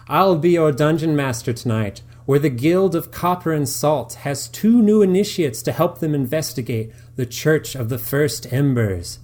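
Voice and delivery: lightly voiced theatrical game master; dungeon master voice. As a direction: announce the quest with pomp. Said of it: "he begins".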